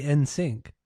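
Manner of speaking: "N sync" with N said as the letter, en. Shown as a demonstration. Answering cohost how they say the band name, letter N. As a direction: say "N sync" as a clear en plus sink. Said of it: "I just say".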